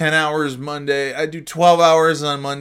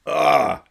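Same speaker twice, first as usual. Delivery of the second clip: ASMR sigh; 3 semitones higher than usual. Real, not acted. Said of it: "that's some A S M R right there".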